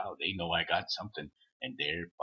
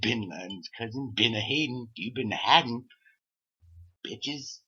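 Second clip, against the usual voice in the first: mocking taunt; 2 semitones higher, 3 dB louder than usual. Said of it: "I was a prick".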